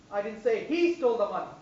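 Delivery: "he" stressed. Shown as a demonstration. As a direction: hit "he". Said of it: "stress on each word".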